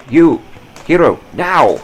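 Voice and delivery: loud, high, barked commands; angry shout. Acted. Captain yells at Hiro to shoot, furious shout. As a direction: force the frozen boy to fire.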